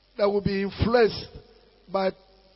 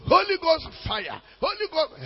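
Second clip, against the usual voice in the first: raised-pitch prayer chant; mock fervent prayer; 8 semitones higher than usual. Praying person ignoring the knocking neighbour, mock fervent prayer. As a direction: pray higher, ignoring the interruption.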